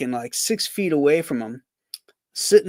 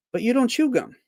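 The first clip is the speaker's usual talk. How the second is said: higher, lightly voiced protest; protesting buddy; 12 semitones higher than usual. Friend objecting he doesn't chew gum, higher voice. Second strip character replies.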